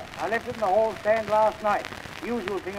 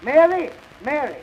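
calling out; 3 semitones higher, 4 dB louder than usual. Acted. Master summoning the maid Mary, calling out. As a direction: call for the maid, louder at the start. Calls the servant to come.

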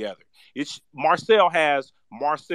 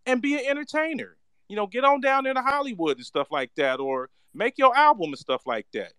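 heated rebuke; 4 semitones higher than usual. Real, not acted. Scolding a failed candidate.

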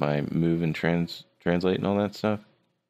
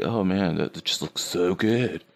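mock gushing, higher voice breaking into laughter; hammed-up admiration; 5 semitones higher than usual. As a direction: play an overawed fan, losing it laughing. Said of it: "I'll be like".

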